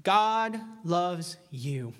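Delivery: high, loud preacher voice, slowing to a crawl; quoting a preacher at full force, building then drawing out; fiery preacher. Retold or imitated. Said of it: "hear a preacher get up and say".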